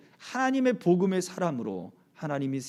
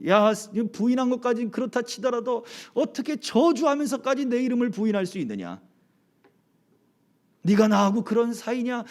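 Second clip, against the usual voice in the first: higher, pressing complaint, half-acted; mock accusing; 5 semitones higher than usual. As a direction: demand an answer as if wronged. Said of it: "그렇게 막 따지지 않았단". (따지듯 몰아붙이는 흉내)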